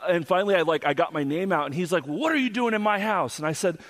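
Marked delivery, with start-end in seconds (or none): 2.1-3.4 higher-pitched mock demand; retold confrontation. Homeowner confronting a boy in his house, mock accusing demand. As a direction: imitate a suspicious owner's challenge.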